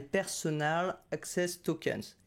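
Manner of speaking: put-on slow, careful English accent on the brand name; self-mocking English accent. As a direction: put on your best English accent, slowly. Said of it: "Mon super accent anglais".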